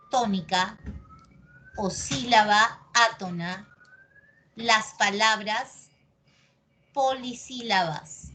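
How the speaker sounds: word by word, with long pauses; slow dictation. Real, not acted. Teacher dictating a rule to the class, slow and segmented. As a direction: dictate slowly for note-taking.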